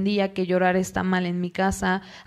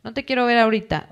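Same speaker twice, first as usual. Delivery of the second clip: a mildly raised, impatient scold that speeds up at the end; mock scolding parent; 3 semitones higher than usual. Mamá o papá regañando al hijo que llora, un regaño fingido e impaciente. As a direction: lightly act out a parent brushing off a crying child. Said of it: "llegar con una respuesta negativa de".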